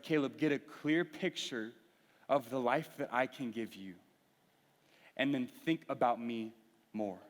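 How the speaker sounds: gentle voice of God. Retold or imitated.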